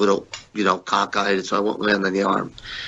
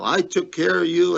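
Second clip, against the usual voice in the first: higher mock yell at the wrestler; retold scream; 8 semitones higher than usual. Boss Vince yelling at his wrestler, a mock yell. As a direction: throw it back at him like a raging boss. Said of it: "Vince started screaming".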